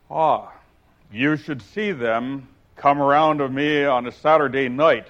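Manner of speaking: solemn boastful egg; grave. Acted. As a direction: pronounce it gravely. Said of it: "wagging his head gravely".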